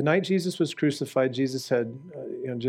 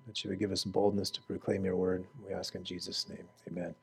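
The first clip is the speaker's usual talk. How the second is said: closing prayer; 2 semitones lower than usual. Real, not acted.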